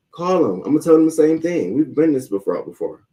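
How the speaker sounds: high-pitched, daring comeback; retold quarrel, high and insistent; defiant dare. Acts out quarrel with neighbour.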